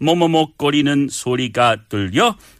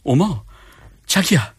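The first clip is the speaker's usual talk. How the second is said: put-on Korean in a slushy Scottish film-star accent; halting, put-on Scottish lilt; Sean Connery; 3 semitones higher, much faster than usual. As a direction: play the spouse as a suave spy. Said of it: "with the Sean Connery accent".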